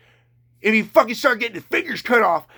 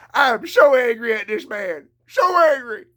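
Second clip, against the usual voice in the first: angry tears rising in the throat; close to tears; 3 semitones higher, 4 dB louder than usual. Real, not acted. Ranting about the extortionist, near tears with anger. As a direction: voice cracking on the verge of crying. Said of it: "you can hear he wants to cry".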